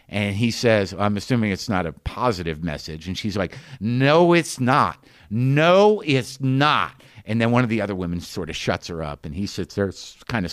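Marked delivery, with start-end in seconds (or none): 3.8-7.0 mock childish denial, each "no" high and loud; childish protest. Woman rebutting the man beside her, childishly. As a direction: imitate a grown woman contradicting like a kid. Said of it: "like an eight-year-old would do".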